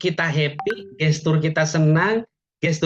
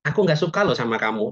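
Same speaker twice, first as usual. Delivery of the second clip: mild anger; 3 semitones lower than usual. Shown as a demonstration. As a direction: say it gently, as if not really angry. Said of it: "tapi gayanya gini".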